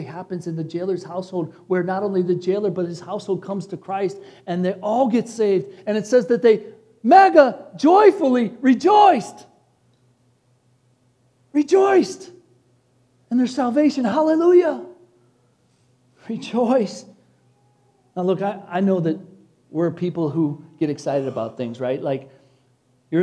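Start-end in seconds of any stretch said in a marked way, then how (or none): 5.9-17.0 rising, louder preacher's cry of joy; preaching at full force. Acted. Preacher to congregation, proclaiming joy at full force. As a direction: lift the room as a preacher, calling out rejoicing.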